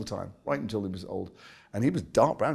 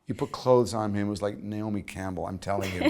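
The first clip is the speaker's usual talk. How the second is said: Diane Cannon. Retold or imitated. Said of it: "Diane Cannon would say to me".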